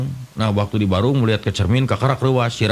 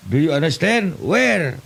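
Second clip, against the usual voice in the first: much higher, slow mock English; broken English; 6 semitones higher, slower than usual. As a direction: ham up clumsy English. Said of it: "Bahasa Inggris tapi kepakojot". (bahasa Inggris ngawur, nada tinggi dibuat-buat)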